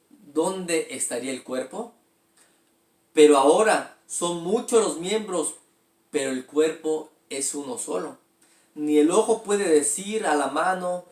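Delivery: steady, measured Bible reading voice; scripture reading. Acted. Pastor reading scripture aloud to the congregation, measured and steady. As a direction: read the verse out to the church.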